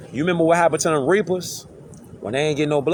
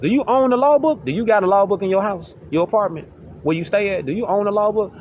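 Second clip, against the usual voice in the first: mock earnest question; 4 semitones higher than usual. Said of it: "You ask them".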